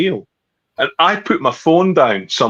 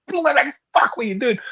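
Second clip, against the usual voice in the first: incredulous friend; 12 semitones higher, 4 dB quieter than usual. Retold or imitated. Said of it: "Steve was like".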